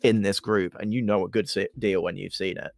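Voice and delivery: low smooth sales flattery; a lightly voiced sweet-talking merchant; potion seller. Dribbler flatters low and soft.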